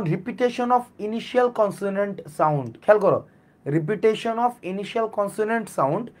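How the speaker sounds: repetition of initial consonant sound spoken very slowly and evenly; slow, dictated definition. Shown as a demonstration. Teacher dictates the definition to students, very slowly. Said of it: "কি?".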